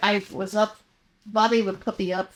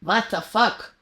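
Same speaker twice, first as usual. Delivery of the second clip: Polish accent; 4 semitones higher, 3 dB louder, slower than usual. Shown as a demonstration. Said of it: "Polish accent".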